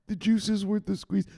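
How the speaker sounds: high-pitched obedient recital, not yet loud; cowed recital. Acted. Trader repeating the enforcer's slogan, high cowed voice. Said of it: "Say it louder".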